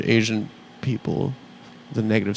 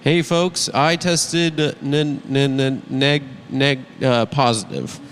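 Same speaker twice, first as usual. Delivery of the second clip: lightly voiced stammering politician; Joe Biden; much slower than usual. Host plays the president announcing his test, rough stuttering impression. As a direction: stutter slowly over the word, then give up. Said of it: "I'll get a Biden impression".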